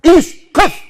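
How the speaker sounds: two high, loud barked orders; forceful command. Retold or imitated. Powerful figure ordering the driver to stop, forceful shout. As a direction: halt them with great power. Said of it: "با قدرت میگه، خیلی هم قویه".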